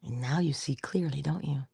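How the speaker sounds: soft secret-telling whisper. Real, not acted. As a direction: lean in and whisper the reveal. Revealing the clear view, hushed.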